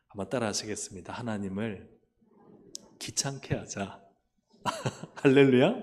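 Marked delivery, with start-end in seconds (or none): 5.2-5.7 loud rising call to the congregation; hallelujah call. Real, not acted. Preacher rousing the congregation with a loud hallelujah. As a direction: call it out to rouse the room. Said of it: "preacher calls out to congregation".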